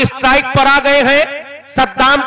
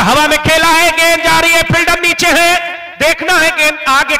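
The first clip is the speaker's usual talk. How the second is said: excited cricket commentary; 5 semitones higher than usual. Real, not acted. Ball in air, fielder under.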